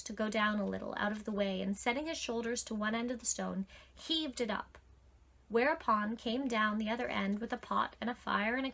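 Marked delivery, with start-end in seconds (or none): none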